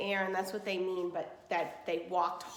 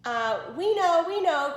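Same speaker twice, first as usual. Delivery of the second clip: cried out; 8 semitones higher, 9 dB louder than usual. Acted. Sisters insisting to the sister that they know, crying out. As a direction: cry out in desperate insistence. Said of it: "cried those two sisters".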